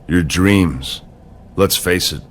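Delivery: low, slow gloating threat; menacing taunt. Acted. Rival mocking Cena's hopes before WrestleMania, menacing taunt.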